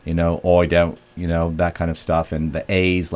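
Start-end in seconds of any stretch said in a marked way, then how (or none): 0.4-1.0 "oi" with an oi sound for I, Cockney style; "oi don't" Cockney vowel, I said as oi. Shown as a demonstration. Demoing the Cockney I on the radio: "oi" for I. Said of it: "make their I's a little oi".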